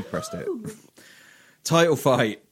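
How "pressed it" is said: high, soft squeak of dismay; mock high-pitched despair. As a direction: yelp it up high as he presses it. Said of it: "I'm watching it going".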